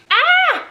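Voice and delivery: short high, loud yelp; frustrated scream. Real, not acted. To viewers after ruining her makeup, frustrated scream. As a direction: cry out in exasperation.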